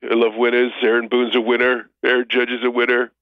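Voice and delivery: lightly voiced boastful Trump; a hint of Trump praising winners; Trump impression. Co-host joining the Trump bit, light boastful impression.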